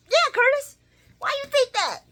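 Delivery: very high, loud group-echo squeal; mock challenge. Everybody challenging Curtis, echoed in a loud high squeal. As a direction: pile on in a high mocking voice.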